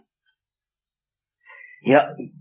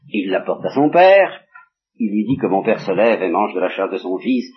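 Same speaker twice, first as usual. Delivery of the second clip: ordinary talk, nothing marked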